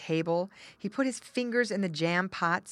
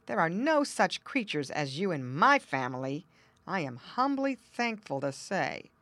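snooty bored cat; 2 semitones higher than usual. Acted. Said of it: "said the tommy cat haughtily".

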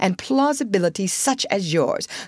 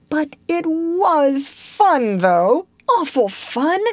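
louder, higher, drawn-out gleeful protest; mutinous; 10 semitones higher, 4 dB louder, slower than usual. A narrator's reading. Toad insisting to himself it was fun, mutinous. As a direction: protest stubbornly, stretching out the fun. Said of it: "he kept saying to himself mutinously".

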